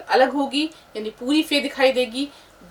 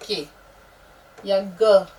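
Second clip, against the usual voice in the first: drawn-out letters; 3 semitones lower, much slower than usual. Shown as a demonstration. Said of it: "इसकी शक्ल ऐसे हो जाती है".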